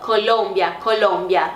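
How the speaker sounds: Colômbia with the tongue curled up on the l. Shown as a demonstration. Teacher demonstrating Spanish Colômbia, curled-tongue l. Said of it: "enrola um pouquinho mais a língua".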